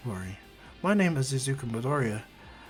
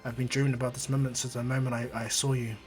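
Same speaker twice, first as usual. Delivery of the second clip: softer, gentle comfort; tender; 2 semitones lower, 5 dB quieter than usual. Acted. Izuku to Eri, soft tender vow. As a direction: say it softly to a hurt child. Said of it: "he goes".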